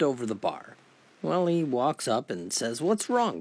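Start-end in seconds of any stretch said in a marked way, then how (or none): 2.8-3.4 surprised concern. Acted. Dave greets slumped friend.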